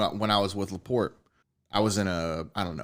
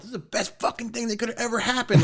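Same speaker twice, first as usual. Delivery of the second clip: much higher, louder, gushing excitement; overjoyed; 11 semitones higher, 5 dB louder than usual. Retold or imitated. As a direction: burst with happiness at the news. Retelling joyful reaction to pregnancy.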